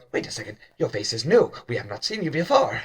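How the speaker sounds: fast, lightly voiced kobold; quick kobold chatter. Kobolds realizing the servant is new, fast and light. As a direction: rattle it off, noticing the new face. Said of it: "They go, they go".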